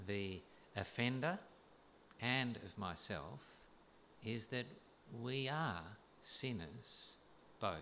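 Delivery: deliberate sermon delivery with long pauses; weighty, spaced-out exposition; measured preaching. Real, not acted. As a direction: set each phrase apart for the congregation. Preaches on the passage.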